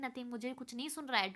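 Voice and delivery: whispering back. Retold or imitated. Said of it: "Omega whispering back".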